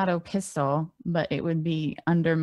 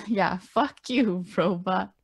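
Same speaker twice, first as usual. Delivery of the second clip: laughing, looser defiance; mixed up delivery; 2 semitones higher than usual. Acted. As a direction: say it again with a grin. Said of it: "mix it up".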